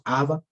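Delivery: "Abba" with the last A accented; final-syllable stress. Shown as a demonstration. Teacher inviting students to repeat, "Abba" stressed on the final A. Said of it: "si podemos repetir".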